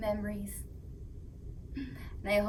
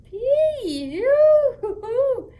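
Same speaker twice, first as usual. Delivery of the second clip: high, loud laughing pee-yoo; giggly teasing; 12 semitones higher, 12 dB louder, much slower than usual. Acted. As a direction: laugh at the stinky smell. Teasing about stinky feet.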